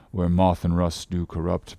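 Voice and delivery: soft, low scripture mumble; mumbling to himself. A narrator's reading. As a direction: murmur it privately, low and soft. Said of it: "went on mumbling to himself".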